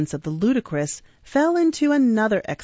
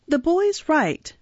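lightly voiced Fagin; 10 semitones higher, slower than usual. Fagin schemes.

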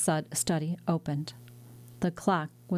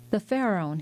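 mild shout; 2 semitones higher than usual. Acted. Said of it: "he shouted".

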